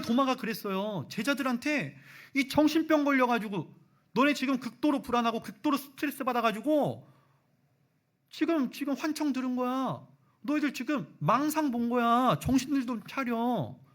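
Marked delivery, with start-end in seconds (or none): 2.3-13.8 high, loud, exasperated scolding; scolding Thomas. Retold or imitated. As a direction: tell them to snap out of it. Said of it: "지금 도마가 그러고 있거든요". (높고 큰 소리로 꾸짖는 도마)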